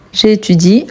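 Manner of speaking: "étudie" ending on a clean I sound; silent final E. Shown as a demonstration. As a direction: say "J'étudie" with no E after the I. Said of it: "on ne prononce jamais les E à la fin".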